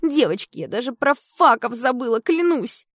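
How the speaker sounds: high, loud swooning; excited gushing. Acted. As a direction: swoon over him dreamily. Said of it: "подхватила Оксанка".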